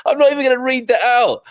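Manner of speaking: laughing. Real, not acted. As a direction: crack up at the cheeky comment. Laughing at a cheeky comment.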